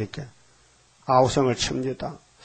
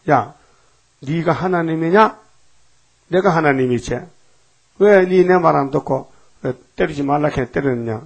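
a touch of God's anger, a little louder; angry God; 3 dB louder than usual. Retold or imitated. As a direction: scold Moses as an angry God. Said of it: "하나님이 화를 내십니다". (모세를 꾸짖는 하나님, 약간 화난 목소리)

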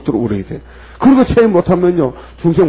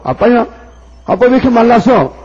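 higher, louder daughter in dismay; daughter's tearful cry; 9 semitones higher, 4 dB louder than usual. Retold or imitated. Daughter meeting thin father. (높고 큰 목소리로 우는 딸 흉내)

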